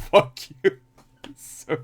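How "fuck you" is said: put-on loud, raised baby voice; higher, louder mock baby outburst; voiced baby. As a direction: imitate a cursing baby, punched out. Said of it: "and the baby just goes".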